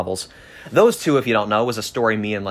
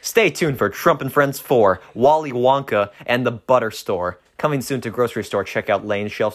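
trailer announcer; 3 semitones higher than usual. Acted. Announcing next book like a trailer.

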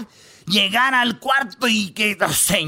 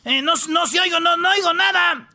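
playing deaf boy; 8 semitones higher than usual. Pepito plays deaf, higher.

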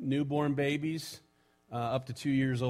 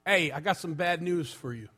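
put-on lightly done New York accent; a New York dad breaking bad news; 3 semitones higher than usual. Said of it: "And in his New York, uh, accent".

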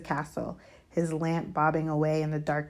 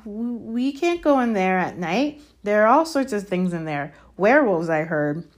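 higher, stammering nervous protest; rattled, alarm rising on the danger; losing his cool; 4 semitones higher, 6 dB louder than usual. A narrator's reading. Malfoy balking at the forest at night, rattled. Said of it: "didn't sound quite as cool as usual".

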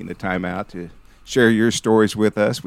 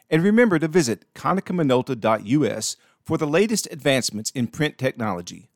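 measured scripted ad read, slightly softer; sponsor read; 5 dB quieter than usual. Real, not acted. Host thanking podcast sponsor Konica Minolta, scripted ad read. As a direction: read the sponsor credit like an announcer.

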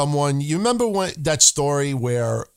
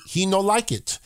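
mock broken English; 5 semitones higher than usual. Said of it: "I sound like a Japanese Sin Cara".

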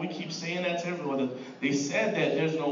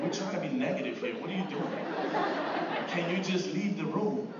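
laughing mock complaint. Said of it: "look at you crooked-eyed like".

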